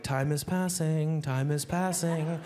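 slow eerie taunting chant; dripping faucet voice. Retold or imitated. Faucet drip taunts the comic in the dark, slow and eerie. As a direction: let the drip haunt him. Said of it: "water's dripping ... like".

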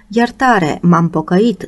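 pleading cry. Acted. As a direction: beg him for mercy, voice lifting. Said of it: "strigă contesa".

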